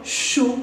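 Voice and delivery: chaud said as sho, no D at the end; silent D. Shown as a demonstration. Teacher showing students that chaud has no final D. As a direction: chaud ends on a clean O. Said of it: "la D no la pronuncio".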